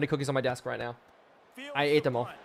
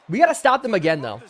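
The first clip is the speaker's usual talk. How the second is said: shout; 3 dB louder than usual. Real, not acted. Hyping defense stop.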